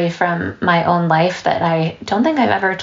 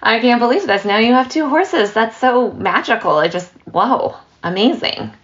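higher, eager gushing neighbor; mock gushing; 4 semitones higher than usual. Neighbor over the fence marveling at two horses, excited gush. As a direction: gush over their good luck like a nosy neighbor.

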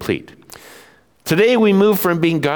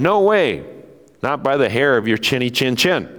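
little pig voice. Acted. Pigs voiced in story.

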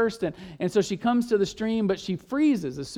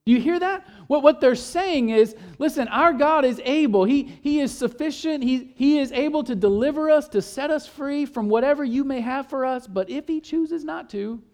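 raised, pleading preacher pitch; fervent, higher; 5 semitones higher than usual. Real, not acted. Preacher urging the congregation, high fervent voice. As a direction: lift the voice high and urgent.

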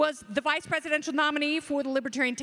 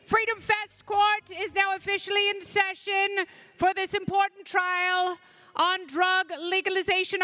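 town crier; 4 semitones higher than usual. Acted. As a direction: announce it like a court crier opening session. Opening the mock court session.

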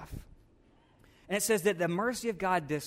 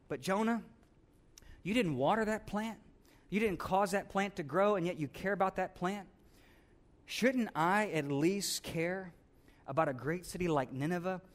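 gentle rebuke; 4 dB quieter than usual. Acted. God gently reasoning with Jonah.

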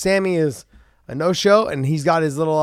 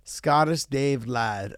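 slow tryout; 4 dB quieter, much slower than usual. Acted. Trying out the name slowly.

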